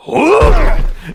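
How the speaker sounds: loud breathy whoosh; tackle noise. Acted. Game master sounding out the half-orc's tackle, loud whoosh. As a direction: imitate a sudden tackle impact.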